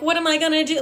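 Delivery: mock bawling. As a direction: whine it as if bawling. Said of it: "I start bawling about the randomest shit".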